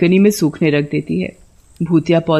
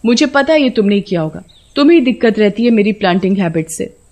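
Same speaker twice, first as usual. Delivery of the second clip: mild acted yelling; 3 semitones higher than usual. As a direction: call him over, annoyed and alarmed. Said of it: "सोना के चिल्लाने की आवाज सुनकर". (हल्की नाराज़गी से पुकारना)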